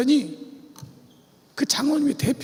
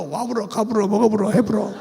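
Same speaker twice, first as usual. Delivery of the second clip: Jeolla dialect; 5 semitones lower than usual. Shown as a demonstration. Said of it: "말소리 들어보면 알아요".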